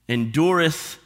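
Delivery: ordinary talk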